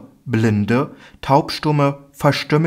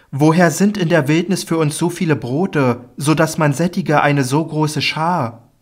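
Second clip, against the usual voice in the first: higher, puzzled questioning; doubtful disciples; 6 semitones higher than usual. Acted. Disciples ask Jesus where bread could come from, higher and puzzled. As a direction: ask in disbelief.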